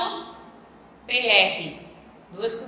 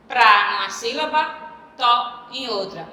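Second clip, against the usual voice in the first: PRA and TO set apart, PRA louder; syllable split; 4 dB louder than usual. Shown as a demonstration. Teacher dividing prato for students, syllable split. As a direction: break it between "pra" and "to". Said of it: "O mesmo acontece com prato".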